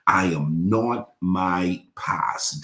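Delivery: each word drawn out and weighted; slow, emphatic declaration. Real, not acted. Preacher leading the congregation's declaration, slow and emphatic. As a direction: land the final line slowly, word by word.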